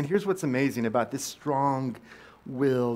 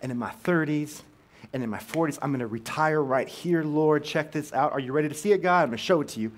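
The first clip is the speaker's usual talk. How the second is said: louder, eager build-up to a big reveal; excited showing off; 2 semitones higher, 5 dB louder than usual. Retold or imitated. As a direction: hype it like unveiling a surprise. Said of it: "and he would say".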